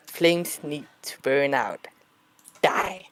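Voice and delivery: understated, sweetly innocent delivery, unhurried; cute innocent voice. Acted. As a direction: say it slowly with mild, girlish innocence. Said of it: "she says it in a very, like, cute, innocent voice".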